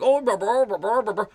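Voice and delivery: half-sure attempt at a singsong cartoon cook; Swedish Chef. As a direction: imitate bouncy nonsense babble. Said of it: "what does he sound? He's like".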